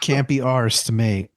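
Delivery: mock British accent, echoed back. Co-host echoes the failed line back, mock British accent. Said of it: "That was a terrible British accent".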